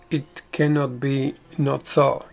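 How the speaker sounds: ordinary delivery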